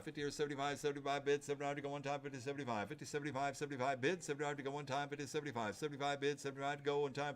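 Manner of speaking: rapid rhythmic bid calling; auctioneer. Real, not acted. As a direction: rattle off the bids like an auctioneer.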